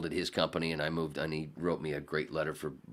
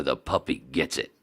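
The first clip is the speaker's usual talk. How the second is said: radio promo announcer; 5 semitones lower than usual. Retold or imitated. Imitating the puppy-threat promo, announcer voice. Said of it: "you hear in the background".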